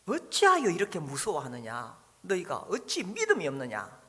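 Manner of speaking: a touch of reproach on "어찌하여", not harsh; mild rebuke. Shown as a demonstration. Pastor voicing Jesus rebuking the disciples, mildly reproachful. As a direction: gently scold the frightened disciples. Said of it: "이 약간 책망하는 투입니다".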